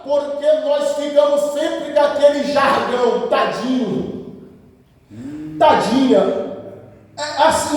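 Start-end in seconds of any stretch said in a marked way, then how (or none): 3.3-6.5 slow, drawn-out cooing pity; mock pity. Preacher imitating church members, mock pitying. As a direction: imitate people pitying someone. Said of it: "não é assim que a gente se comporta?".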